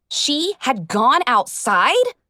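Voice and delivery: slow, stunned disbelief rising. Acted. Narrator realising her idol left the stable, stunned. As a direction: let the shock sink in.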